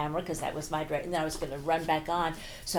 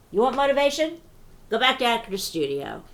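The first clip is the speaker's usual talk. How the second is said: mock snotty producer; 5 semitones higher, 6 dB louder than usual. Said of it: "he said".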